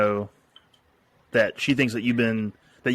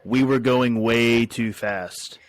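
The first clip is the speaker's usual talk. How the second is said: slow line read; much slower than usual. Shown as a demonstration. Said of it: "I need you to say".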